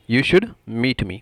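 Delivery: slow repeat with spaced words; slow model phrase. Shown as a demonstration. Teacher repeats the English translation for viewers, slowly. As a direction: separate the words so learners can follow.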